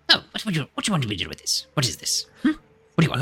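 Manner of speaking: put-on high, fussy old gnome voice; squeaky, puzzled gnome wizard; Griswold voice. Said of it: "What was his voice again?".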